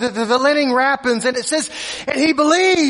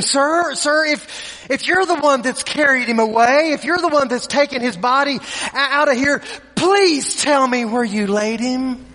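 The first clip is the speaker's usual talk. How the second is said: pleading. Retold or imitated. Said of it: "she says something to him".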